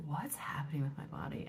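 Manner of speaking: hushed whisper. Retold or imitated. Retold panicked thought in bed.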